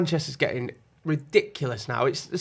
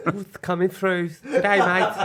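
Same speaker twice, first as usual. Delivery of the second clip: snake impression; 3 semitones higher, slower than usual. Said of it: "I've got an impression of a snake".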